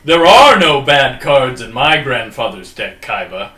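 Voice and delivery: anime voice. Retold or imitated. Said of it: "Oh, I love that voice".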